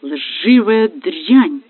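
husband shouting at his cheating wife; angry insult. Acted. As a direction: drag out the insult in rage. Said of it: "вдруг закричал он".

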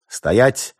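high, loud barked command; police shout. A narrator's reading. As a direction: bark it like police.

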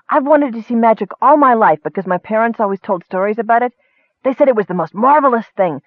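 a Kender gushing about magic to the elf; breathless wonder, rising high on the last question; awed Kender. Acted. Kender speaks in the story.

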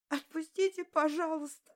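high, broken begging through tears; tearful plea. Acted. Beaten girl begging through tears, pitched high. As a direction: plead through your tears. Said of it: "сквозь слёзы шептала я".

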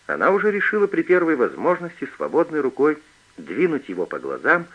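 usual speaking voice

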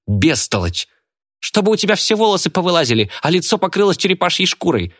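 put-on high shrieking girl quarrel; squabbling girl. A narrator's reading. Girl and witch trade insults in the van, high and heated. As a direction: hurl insults back and forth, rising high.

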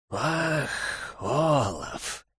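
eldritch horror voice, hoarse; inhuman rasp. Acted. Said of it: "прохрипел нечеловеческий голос". (нечеловеческий хриплый голос)

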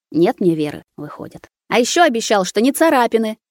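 building tearful outcry. Acted. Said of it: "Уже громче рыдала Маруся".

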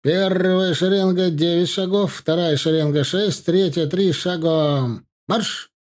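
high, loud drill commands; shouting drill sergeant. A narrator's reading. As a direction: bellow the steps to the ranks. Colonel drilling the ranks.

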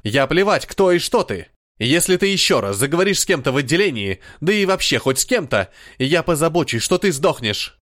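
громче, с напором и угрозой; пригрози ей смертью; злая угроза. Acted. Рейджин угрожает смертью. (Рейджин угрожает Адалане, зло и громко)

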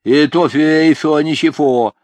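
toothless mumble. A narrator's reading. Toothless old man lisps.

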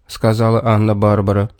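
usual speaking voice

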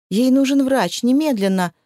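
sharp urgent demand; demanding shout. Acted. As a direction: insist loudly on a doctor. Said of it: "требовала Кайла".

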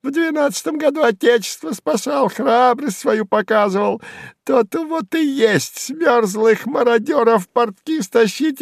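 high, sneering squeal; mock the old soldier; high jeering voice; spiteful jester, mocking. A narrator's reading. Сувенир keeps taunting.

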